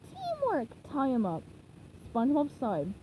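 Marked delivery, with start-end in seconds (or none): 0.1-0.7 patient teaching. Shown as a demonstration. 0.9-1.4 Plankton voice. Acted.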